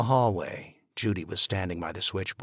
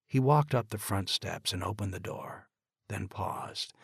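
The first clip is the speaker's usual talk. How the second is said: usual speaking voice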